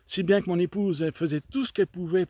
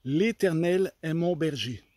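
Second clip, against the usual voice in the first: inner voice; slower than usual. Retold or imitated. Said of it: "une voix intérieure me dit".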